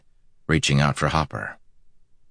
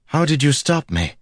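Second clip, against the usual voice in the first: high-pitched voiced woman demanding; 11 semitones higher than usual. A narrator's reading. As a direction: demand an answer. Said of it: "she demanded".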